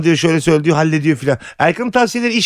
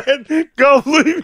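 slow cable voice; 9 semitones higher, much slower than usual. Retold or imitated. Voicing the cable Erkan.

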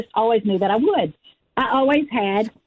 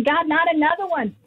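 retold anguished plea; 6 semitones higher than usual. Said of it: "crying out to God and saying".

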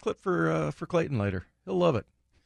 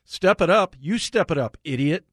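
mock anger; 4 semitones higher than usual. Radio host reading out a listener's text, mock anger. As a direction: read it as a mildly angry jab. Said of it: "Like the anger you put on that".

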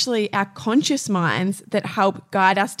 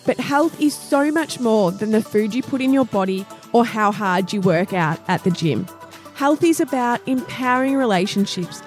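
upbeat host intro over music; podcast intro read. Acted. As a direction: read it like a show opener.

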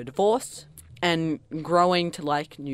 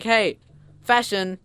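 lightly voiced singer, higher and louder; breezy pop star; 5 semitones higher, 6 dB louder, slower than usual. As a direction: imitate a star casually hitting on an idea. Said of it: "she was just like".

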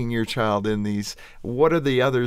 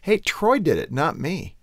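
put-on kid blaming brother; 6 semitones higher than usual. Mother imitates son Trent blaming Troy, childish protest. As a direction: imitate a kid passing the blame.

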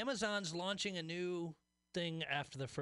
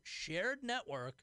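sarcastic air quotes; 5 semitones higher, much slower than usual. Retold or imitated. Air-quoting the company's phrase.

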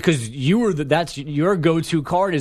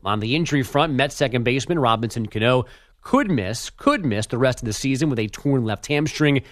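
measured radio update delivery; sports news read. Acted. Update anchor reading league news to listeners, news read. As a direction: read the headlines as a sports bulletin.

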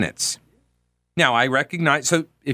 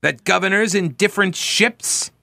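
put-on higher-pitched Old English reading voice; Old English dialect; 5 semitones higher than usual. Radio host resumes reading the resolves, Old English dialect. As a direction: proclaim it in an Old English manner. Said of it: "read it in my Old English".

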